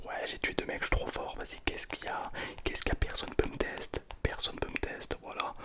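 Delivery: whispered mock bragging; showing off. Shown as a demonstration. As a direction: play the cocky champion in a whisper. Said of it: "je commence à me la péter". (frime chuchotée pour rire)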